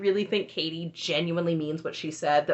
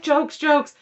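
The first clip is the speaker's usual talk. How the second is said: higher, louder mock teen shrug-off; joking brush-off; 8 semitones higher, 6 dB louder than usual. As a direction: toss it off like a teasing teen. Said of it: "And Hunter's like".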